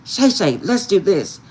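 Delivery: high, eager mock coaxing; lightly voiced friend egging her on. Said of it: "And she's like".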